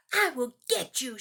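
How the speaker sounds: mock threat to the hose; mild growl. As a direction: alligator growling at the garden hose. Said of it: "she growled".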